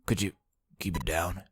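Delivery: soft, low, drowsy; half-asleep and soft; sleepy whisper-soft man. Acted. Voices sleepy Ace.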